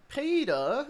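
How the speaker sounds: high-pitched Australian cartoon wife; drawn-out Australian wife's whine; Lois. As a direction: call out high in an Australian accent. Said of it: "Australian Lois".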